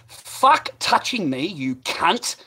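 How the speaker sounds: loud, high, drawn-out outburst; reenacted furious yell; retold angry shout. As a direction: blast him with slow, heavy words.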